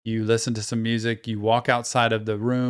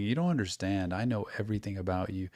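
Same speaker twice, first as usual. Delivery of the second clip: soft, slightly lowered imitation of a calm tormentor; calm dark voice; 3 semitones lower, 9 dB quieter, faster than usual. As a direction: quietly imitate a calm, all-knowing voice. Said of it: "the voice is so deep, and he's talking so calmly".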